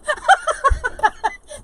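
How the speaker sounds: high, loud peal of laughter; real cackling fit, pitched high; hearty laughter. Real, not acted. Laughing at a viewer's spy cam joke, hearty high laughter.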